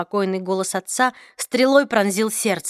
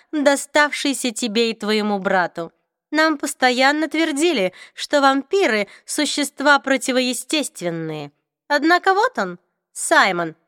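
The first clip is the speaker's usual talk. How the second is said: cold vampire voice; 4 semitones higher than usual. Acted. Raphael argues about vampires.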